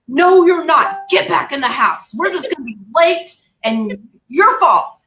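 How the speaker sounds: retold yelling. Daughter ordering mom into the house, retold yelling. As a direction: re-enact bossing Mom back indoors. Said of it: "I'm yelling at her the whole time".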